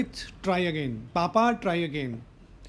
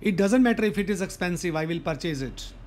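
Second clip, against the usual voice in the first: slow teaching demo; much slower than usual. Shown as a demonstration. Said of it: "slow model sentence for learners".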